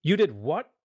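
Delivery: loud, incredulous shout in a changed voice. Acted. Wizard raging at the fisherman in his house, shouting. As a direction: explode at the lie. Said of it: "The wizard shouted".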